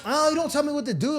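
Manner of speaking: high, sassy mock defiance; defiant girlfriend. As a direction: talk back like a stubborn girlfriend. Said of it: "You're like".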